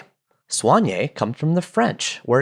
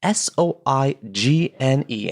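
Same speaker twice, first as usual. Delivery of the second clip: spelling it out. Shown as a demonstration. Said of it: "accent that goes up".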